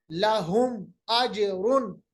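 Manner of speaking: slow recitation, meem of लहुम clear, jeem of अजरुन bounced; clear meem with echo. Shown as a demonstration. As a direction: clean meem, then a small echo on the jeem. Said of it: "यहाँ पे भी इजहार".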